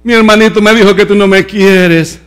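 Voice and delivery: mock crying toddler. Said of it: "el de dos salía llorando".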